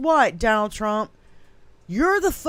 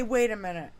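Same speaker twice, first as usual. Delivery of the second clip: ordinary talk, nothing marked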